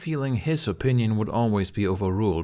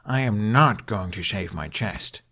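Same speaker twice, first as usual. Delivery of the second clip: forbidding. Acted. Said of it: "Hiccup began forbiddingly".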